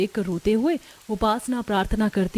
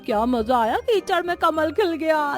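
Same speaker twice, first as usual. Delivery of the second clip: mocking taunt; 4 semitones higher than usual. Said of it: "हंसी उड़ाती है".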